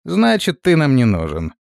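barked raider order, quick; commanding. Acted. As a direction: give the kill order fast. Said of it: "скомандовал рейдер".

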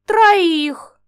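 high, loud exasperated exclamation; exclaiming. A narrator's reading. Mad witch Inga spots a third dragon, exasperated. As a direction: blurt it out, flabbergasted. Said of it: "выдохнула безумная Инга".

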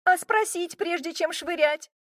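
high, outraged shout; girl yelling down at the man who threw her; indignant yell. A narrator's reading. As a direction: yell it in disbelief. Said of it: "возмущённо заорала я".

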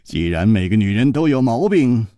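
calm Chu Liuxiang. Acted. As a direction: turn his words back on him gently. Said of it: "楚留香笑着说".

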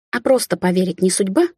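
plain reading voice

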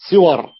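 صور said "siwar", short i after the sad; attested kasra form. Shown as a demonstration. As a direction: open صور with an i vowel, "SI-war". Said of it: "أتى". (صور بكسر الصاد وفتح الواو)

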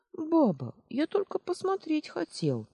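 put-on high, small child's voice, guilty; a five-year-old making excuses; guilty little boy. Little boy making excuses to his grandmother, high guilty voice. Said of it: "Виновато пробормотал мальчишка".

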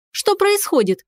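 shouted question. Acted. Girl shouting over the clinging cat. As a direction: call out over the chaos. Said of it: "крикнула я".

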